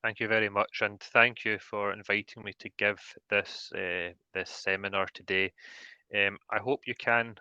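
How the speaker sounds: Glasgow Scottish accent; thick Scottish accent; broad Scottish accent. Real, not acted. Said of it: "the thick Scottish accent".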